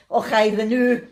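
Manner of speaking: mock Scots catchphrase, badly faked; bad Scottish impression. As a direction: have a half-hearted go at stage Scots. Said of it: "That's about as good as his".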